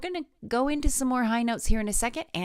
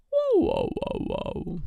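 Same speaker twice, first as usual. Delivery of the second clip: whoa siren; 11 semitones higher, much slower than usual. Shown as a demonstration. Voice teacher leading a whoa slide warm-up. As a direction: sweep down a big range on each whoa. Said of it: "just say with me".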